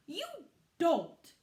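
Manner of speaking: loud, cutting no; biting loud you don't; sharp retort. Acted. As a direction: shut him down hard. Tim cuts in sharply.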